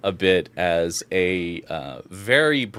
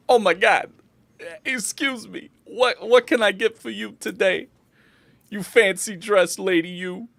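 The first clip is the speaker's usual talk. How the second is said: high-pitched, halting barkeep; flustered bartender; 11 semitones higher than usual. Acted. Bartender serving a fancy dressed lady, high and flustered. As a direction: greet a customer in a high, flustered voice.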